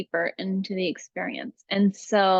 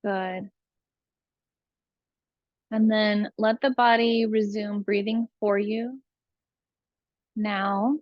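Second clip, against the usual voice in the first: calm, unhurried breathing guide; spacious meditation delivery, phrase by phrase; guided meditation. Real, not acted.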